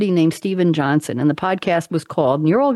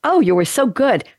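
lightly put-on Valley Girl, higher pitch; Valley Girl accent; 5 semitones higher than usual. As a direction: imitate a Valley Girl parent's compliment. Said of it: "it's Valley Girl".

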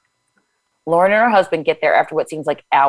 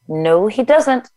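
inner voice; 6 semitones higher, much slower than usual. Acted. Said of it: "my brain says".

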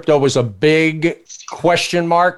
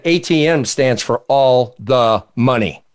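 sly punchline; 6 semitones lower, slower than usual. Retold or imitated. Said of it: "He said".

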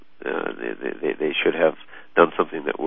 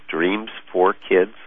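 slow, careful; 2 semitones higher, much slower than usual. Shown as a demonstration. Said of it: "It's all one word".

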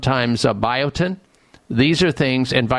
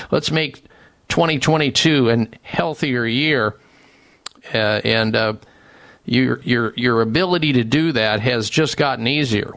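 ad read; 3 semitones higher than usual. Acted. Host reads sponsor ad.

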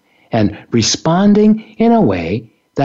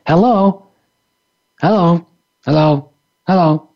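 mechanical hello. Shown as a demonstration. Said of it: "mechanically repeating".

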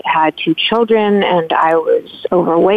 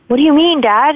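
high-pitched, taken-aback reenactment; retold startled question; 8 semitones higher, 3 dB louder than usual. Daughter questioning Dad over his plan, retold as startled. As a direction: replay the disbelief, pitch jumping up.

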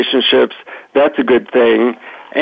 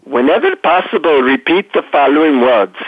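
imitated guru with an Indian accent; lightly put-on Indian accent, instructing a disciple. Guru giving a seeker his mantra, Indian accent. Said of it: "deep Indian accent".

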